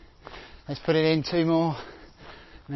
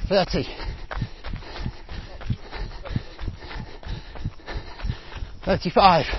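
barking gym coach; 2 semitones higher than usual. Real, not acted. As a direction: bark the count like a coach. Calling out sprint time.

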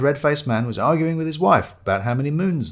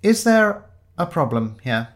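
slow, higher-pitched intervention; stern inspector; 6 semitones higher, 3 dB louder than usual. Acted. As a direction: step in slowly, in authority. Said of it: "a voice that was all too familiar".

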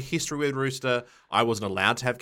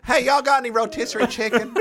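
mock American accent; 11 semitones higher, 4 dB louder than usual. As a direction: play a corny American asking for chicken. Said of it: "Could you just say it in an American accent?".

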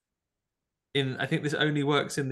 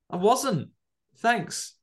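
put-on grumpy kid voice; 6 semitones higher than usual. Kid's reply continued.

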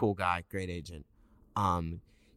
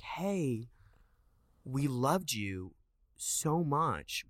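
higher, drawn-out praise; mock gushing; 6 semitones higher, much slower than usual. Casting team phoning the actor months later, mock gushing. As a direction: stretch it out, imitating a kindly caller. Acting out casting's good-news call.

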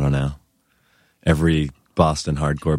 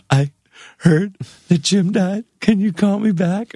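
much higher, upset voicemail voice; panicked high voice; 4 dB louder than usual. Retold or imitated. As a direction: squeak it out like a panicked friend. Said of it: "She was like".

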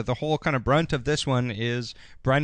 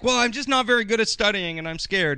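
mock timid confession; 8 semitones higher than usual. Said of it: "she's like".

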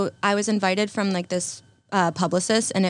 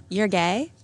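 TikTok sound voice. Retold or imitated. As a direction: quote the viral sound, surprised. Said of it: "It's like that TikTok sound".

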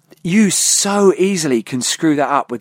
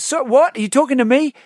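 giraffe voice, high above; 9 semitones higher than usual. Retold or imitated. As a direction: pitch it up like a giraffe with a long neck. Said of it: "his head's so flipping high".

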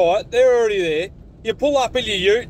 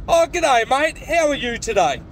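polite greeting; 2 semitones higher than usual. Shown as a demonstration. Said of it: "how about you try saying".

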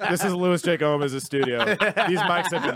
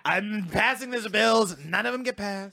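Biden impression; 5 semitones higher than usual. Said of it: "What if Biden was Trump".

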